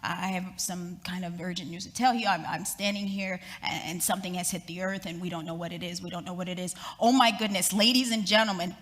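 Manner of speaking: a frightened reporter at the crash site; shaky voice. Retold or imitated. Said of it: "in the shaky voice".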